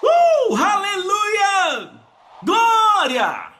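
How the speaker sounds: high, drawn-out whoops and hallelujahs; long ringing cries of praise; shouted praise. Real, not acted. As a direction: lead the crowd in ecstatic shouting. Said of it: "Alguém grite glória!".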